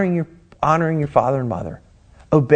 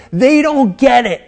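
higher, slow, eye-rolling dismissal; scoffing student; 9 semitones higher, 4 dB louder, slower than usual. Retold or imitated. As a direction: drag it out like a know-it-all teen. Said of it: "we can be like".

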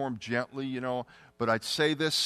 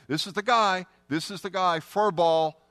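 urgent divine voice; 5 semitones higher, 5 dB louder than usual. Retold or imitated. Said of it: "I really felt like God said".

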